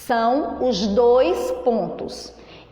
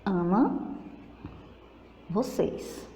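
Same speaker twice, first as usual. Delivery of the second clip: slow word-by-word reading; 6 semitones lower, 8 dB quieter, slower than usual. Shown as a demonstration. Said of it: "a mesma frase".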